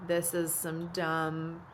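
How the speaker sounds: mock grumble that breaks into a loud laugh; laughing complaint. Mom recalling how she hated hauling show gear, laughing. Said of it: "And I was just like".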